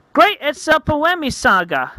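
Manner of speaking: high-pitched anime exclamation; excited exclamation. Acted. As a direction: call it out high and lively. Character exclaims, acted.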